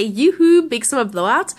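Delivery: lightly voiced salesman catchphrase; notification imitation. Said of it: "all my notifications on my phone".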